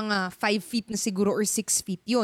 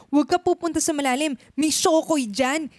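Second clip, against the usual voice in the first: warning parent; 2 semitones higher, 4 dB louder than usual. Retold or imitated. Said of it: "sasabihin sa'yo".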